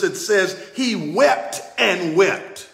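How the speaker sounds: both "wept" drawn out and leaned on, slowly; slow down and lean on each "wept"; stress on wept. Shown as a demonstration. Preacher stressing to the congregation, "wept" slowly weighted. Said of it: "Notice the emphasis".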